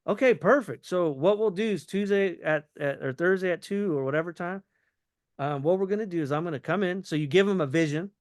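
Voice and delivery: quick, flowing run-on with no pauses; run-on sentence. Shown as a demonstration. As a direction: roll straight through the plan. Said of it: "You do the run-on sentence".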